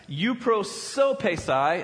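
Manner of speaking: euprosopesai spelled out slowly, syllable by syllable; careful Greek pronunciation. Shown as a demonstration. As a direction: savour each syllable of euprosopesai. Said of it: "it's a fun one, rolls off the tongue".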